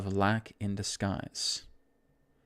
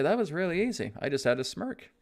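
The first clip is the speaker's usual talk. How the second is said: cheerful quote; 3 semitones higher, faster than usual. Retold or imitated. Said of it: "you'll say".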